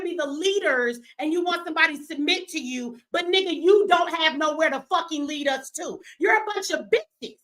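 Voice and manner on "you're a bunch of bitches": raised, higher angry yell; angry shout. Real, not acted. Ranting at men in her chat, angry shout. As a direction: shout the insult at them.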